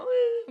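brief mock sob of a bullied child; imitated crying wail. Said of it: "엄청 많이 울었거든요".

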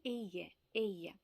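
«еє» modelled twice as a Spanish sound; sound demonstration. Shown as a demonstration. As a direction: show learners how «еє» is pronounced. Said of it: "вчилися вимовляти". (показ вимови іспанського звука «еє»)

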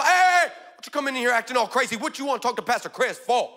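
mock the intruder with attitude; sassy challenge. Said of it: "She goes".

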